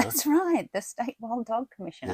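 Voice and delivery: said with a smile, amused. Real, not acted. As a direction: hold back a grin while saying it. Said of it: "say it with a smile in my voice".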